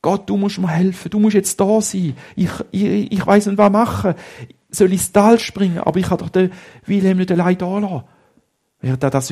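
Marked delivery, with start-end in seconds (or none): 0.0-8.0 higher, louder desperate prayer; boy crying to God for help; calling out to God. Acted. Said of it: "fängt er an zu rufen".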